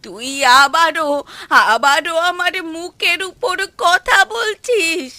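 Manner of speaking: loud, slow rebuke; angry scolding. Acted. Mother scolding son for answering back, angry. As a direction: snap at the son for talking back.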